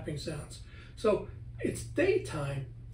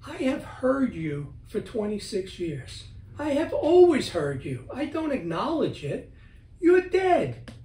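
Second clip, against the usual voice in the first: raised, high, forceful telling-off; stern command to a ghost; 6 semitones higher, 4 dB louder than usual. Retold or imitated. Man confronting a ghost in his hallway, firm and raised. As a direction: tell the spirit firmly it is dead. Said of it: "and I said to it".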